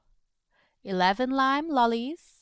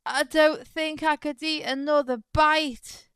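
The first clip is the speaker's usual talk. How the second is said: stuffed iguana; 4 semitones higher than usual. Acted. Overfed iguana complaining.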